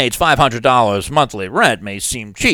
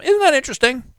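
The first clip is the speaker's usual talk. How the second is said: sarcastic; 11 semitones higher, faster than usual. Acted. Sarcastic remark.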